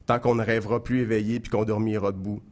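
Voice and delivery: measured, rhymed spoken-word recital; lecture de poème. Acted. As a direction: recite it line by line, pausing after each verse. Récite son poème satirique. (poème récité, scandé vers par vers)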